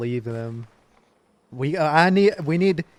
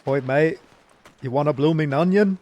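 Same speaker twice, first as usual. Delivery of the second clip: put-on Australian accent; 3 dB louder than usual. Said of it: "all Rangers are Australian".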